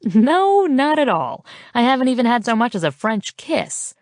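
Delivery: high scoffing no, tapering off. Acted. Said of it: "I scoff".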